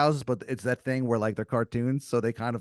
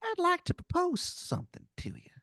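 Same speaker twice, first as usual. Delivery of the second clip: squeaky tooth making an offer; tempting tooth creature. Acted. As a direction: tempt him like a tiny mob boss. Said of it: "And he goes".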